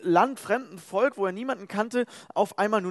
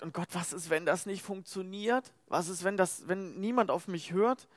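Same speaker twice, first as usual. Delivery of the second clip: a hint of a hushed, anxious Moses; soft and doubting, barely voiced; unsure Moses; 5 dB quieter than usual. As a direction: Moses worried nobody will listen, hushed. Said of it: "er ist trotzdem total unsicher".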